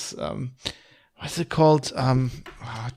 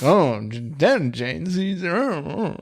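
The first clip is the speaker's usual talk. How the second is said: Latin lover voice; 2 semitones higher, 3 dB quieter, much slower than usual. Retold or imitated. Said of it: "he does this ridiculous Latin lover voice".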